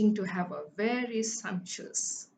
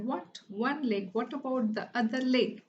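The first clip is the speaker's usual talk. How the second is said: high incredulous master asking about the missing leg; master's disbelieving cry of one leg; shocked master; 4 semitones higher than usual. Acted. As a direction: act stunned the leg is gone.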